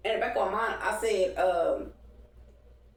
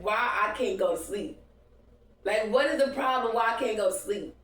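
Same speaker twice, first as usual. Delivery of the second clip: exasperated self-quote; 4 semitones higher, 3 dB louder than usual. Retold or imitated. Frustrated at not sleeping.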